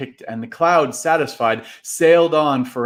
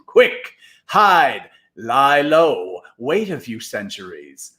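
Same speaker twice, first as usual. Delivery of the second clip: shouting orders; slower than usual. Acted. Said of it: "shouting over the mobs".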